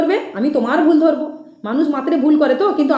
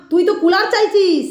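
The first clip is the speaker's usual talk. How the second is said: higher, drawn-out mock accusation; imitated goddess medium; 4 semitones higher than usual. Critic replaying what the medium said on video, mock accusing drawl. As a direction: stretch it out in a light mimicry of the medium. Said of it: "সেই ভিডিওতে তুমি বলেছিলে".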